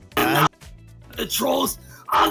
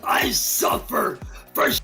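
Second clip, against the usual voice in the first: berserk rage. Real, not acted. Ranting, voice breaking into crying.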